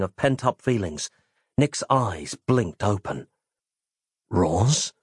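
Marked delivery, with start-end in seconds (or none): 4.3-4.9 lower, weak croak. Acted. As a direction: croak her name waking up. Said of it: "his voice croaking".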